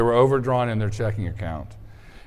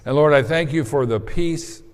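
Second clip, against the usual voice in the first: prayer. Real, not acted. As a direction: pray it gently to God. Leads a prayer.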